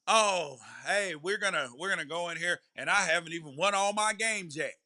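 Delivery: lightly mocked fake Louisiana accent; mock-folksy Louisiana accent, lightly done. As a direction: imitate a coach putting on a hint of Cajun. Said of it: "that fake Louisiana accent".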